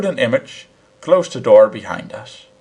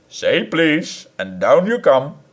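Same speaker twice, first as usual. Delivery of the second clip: teasing; 4 semitones higher, slower than usual. Acted. Husband teasing.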